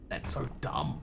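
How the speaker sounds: breathy whisper. Real, not acted. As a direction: whisper it under your breath. Whispered aside.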